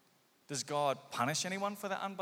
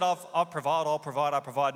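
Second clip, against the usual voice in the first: insistent God; 3 semitones lower, 5 dB louder than usual. Acted. God pleading to provide.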